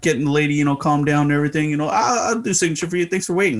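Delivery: a loose, quick Charles Barkley voice. Retold or imitated. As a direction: rattle it off lightly as Barkley. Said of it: "That's my worst impression of Charles Barkley".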